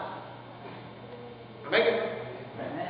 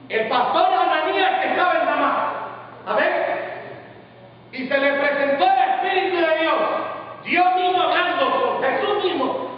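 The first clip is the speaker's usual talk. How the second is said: raised, driving preacher delivery; impassioned preaching; 5 semitones higher than usual. Real, not acted. Preacher telling how God spoke to Ananías, impassioned preaching. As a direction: proclaim the story to the congregation.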